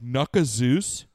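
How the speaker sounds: drawn-out baffled question; puzzled slow question. Retold or imitated. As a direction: read the name slowly, puzzled. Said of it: "I'm like".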